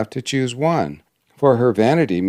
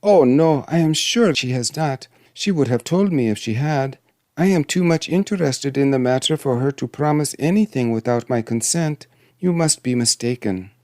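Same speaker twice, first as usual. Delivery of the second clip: lightly raised princess voice, insistent; protesting princess; 5 semitones higher than usual. Acted. Princess denies the promise to the dwarf, protesting. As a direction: politely contradict in a higher voice.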